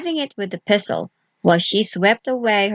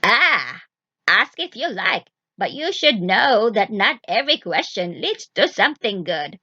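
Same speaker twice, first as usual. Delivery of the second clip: cackling witch. Acted. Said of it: "cackled the witch".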